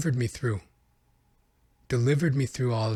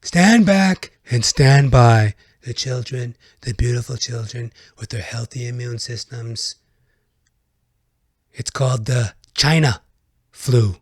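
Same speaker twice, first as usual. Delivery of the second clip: mock political voice; 3 dB louder than usual.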